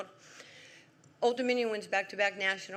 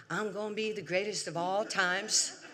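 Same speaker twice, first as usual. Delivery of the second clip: put-on kid boasting. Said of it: "and I went".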